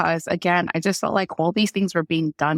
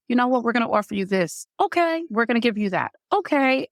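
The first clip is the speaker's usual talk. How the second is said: mock breezy staff voice; 6 semitones higher than usual. Mocking rushed staff offering drugs.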